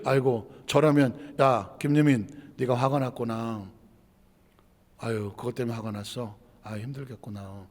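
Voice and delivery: low, soft, sympathetic murmur; consoling self-talk. Shown as a demonstration. Preacher shows comforting himself when angry, gently consoling. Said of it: "화가 났으면 스스로 이렇게".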